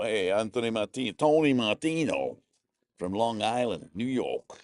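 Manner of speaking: put-on half-hearted New York accent; attempted New York accent. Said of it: "I can't do a New York accent".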